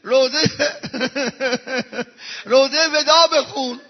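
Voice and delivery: mild emphatic plea. Acted. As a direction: urge it again with feeling. Preacher repeats the angel's request.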